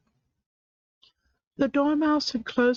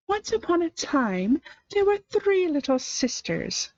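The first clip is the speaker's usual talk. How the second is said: in a great hurry; 8 semitones higher than usual. A narrator's reading. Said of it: "began in a great hurry".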